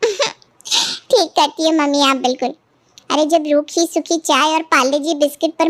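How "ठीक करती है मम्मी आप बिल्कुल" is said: slow words through a laugh; laughing agreement. Acted. Daughter laughing along with her mother on the phone, slow and amused. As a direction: chuckle along with mother's scheme.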